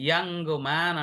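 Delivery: యంగ్ opened with a clear "ya" sound; "ya" pronunciation. Shown as a demonstration. Teacher showing how the word should be said, "ya" pronunciation. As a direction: say యంగ్ as "yang", with an open a. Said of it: "ఇలా పలకాలండి".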